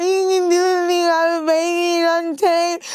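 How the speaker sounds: high, garbled mock sobbing wail; crying. Girlfriend begged to please stop, high garbled crying act. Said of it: "Oh, bitch, I'm crying".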